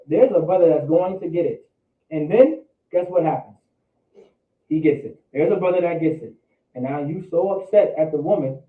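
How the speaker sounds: usual speaking voice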